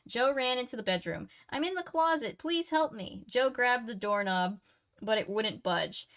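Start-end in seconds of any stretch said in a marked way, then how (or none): 1.5-3.2 higher, pleading woman calling for help; frightened woman voice. Acted. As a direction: beg for help from inside. Fiona trapped, calling for help.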